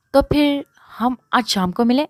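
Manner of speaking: high, loud chirpy asking; bubbly, hoping for a date. A narrator's reading. Nadia asking Maan to meet this evening, chirpy. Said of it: "چہچہاتے دریافت کرنا چاہا".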